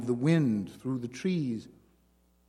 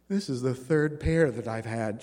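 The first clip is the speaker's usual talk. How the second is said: hoarse. Acted. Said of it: "she continued hoarsely".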